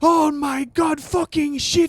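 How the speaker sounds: put-on shouted Indian accent, high. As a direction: yell it in an exaggerated Indian accent. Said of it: "Indian guy impression".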